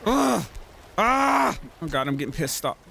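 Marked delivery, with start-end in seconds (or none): none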